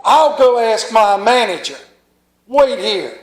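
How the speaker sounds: a fit thrown. Retold or imitated. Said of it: "he threw a fit".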